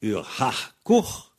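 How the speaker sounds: "ur ha court" with rasped kh endings; "ha court" closed on breathy throat fricatives; Vannetais pronunciation. Shown as a demonstration. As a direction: say "ur ha court" slowly in Vannetais Breton. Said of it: "en vantais, on va dire".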